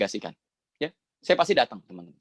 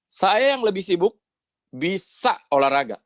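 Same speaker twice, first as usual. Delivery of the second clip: higher, emphatic mock telling-off; retold scolding; 7 semitones higher, 3 dB louder than usual. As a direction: imitate an older client lecturing his junior. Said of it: "diomelin nasabah". (menirukan om yang sedang mengomel)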